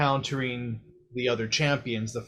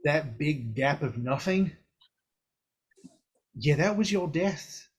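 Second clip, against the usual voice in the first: put-on blunt, teasing old figure explaining death; Mor'du. Mor'du explaining to the hero that he died, teasing. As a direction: lean in and lecture with cheeky bluntness.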